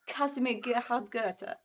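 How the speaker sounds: slow, careful try at "Casimir Gerhard Gurte"; failed German attempt. Shown as a demonstration. Co-host copying the host's German name, careful failed attempt. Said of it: "I failed it".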